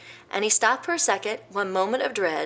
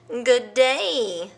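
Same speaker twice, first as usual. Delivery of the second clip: loud, sly crocodile greeting; crafty croc; 5 semitones higher, 4 dB louder than usual. Acted. Crafty croc greeting the elephant, sly. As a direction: greet him slyly. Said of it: "crafty old creepy old croc".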